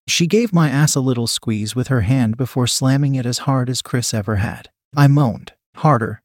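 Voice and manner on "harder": understated demand with a falling end. Acted. Chris directing Julie once more, mildly demanding. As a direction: demand it firmly without raising the voice. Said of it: "he demanded".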